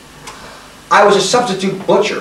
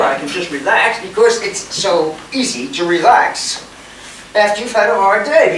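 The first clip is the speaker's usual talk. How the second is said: sarcastic; 2 semitones higher than usual. Acted. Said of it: "I was being sarcastic".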